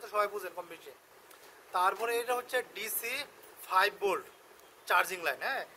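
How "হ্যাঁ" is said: ordinary delivery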